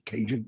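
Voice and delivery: "Cajun" with a soft j sound; soft-g pronunciation. Shown as a demonstration. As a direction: say "Cajun" as KAY-jun, like the Louisiana word. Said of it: "that sounds something from Louisiana".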